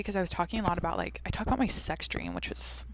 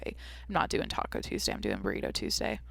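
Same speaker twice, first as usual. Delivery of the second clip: mock smug; 10 semitones lower, 8 dB quieter than usual. Mocking her own uniqueness.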